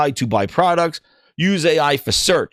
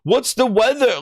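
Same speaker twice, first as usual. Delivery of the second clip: mock exasperated; 9 semitones higher than usual. User cutting off chatty Copilot, mock exasperated and high. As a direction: snap back at a rambling assistant. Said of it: "And I'm like".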